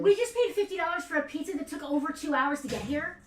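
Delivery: indignant, loud and high; fuming about the price; outraged. Real, not acted. Outraged over pizza price.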